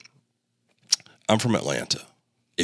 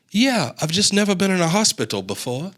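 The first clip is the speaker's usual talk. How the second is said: Southern drawl quote; 12 semitones higher than usual. Retold or imitated. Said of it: "Maybe I didn't do the accent".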